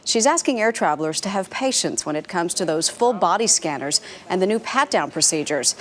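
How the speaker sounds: polished TV anchor lead-in with punched key words; news intro read. Real, not acted. Anchor introducing airport security story to viewers, news read.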